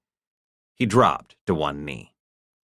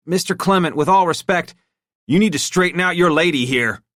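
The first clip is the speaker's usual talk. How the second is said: high, louder strained politeness; tense, forced respect; 12 semitones higher, 6 dB louder than usual. A narrator's reading. Henchman urging his boss, strained and tense. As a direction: keep your temper barely in check. Bucky voiced.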